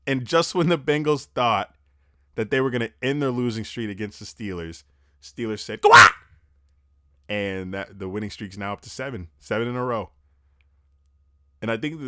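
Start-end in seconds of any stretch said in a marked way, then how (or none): 5.8-6.1 sudden explosive yell; emphatic shout. Acted. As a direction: blurt it out very loud. Mimics Steelers' emphatic reply.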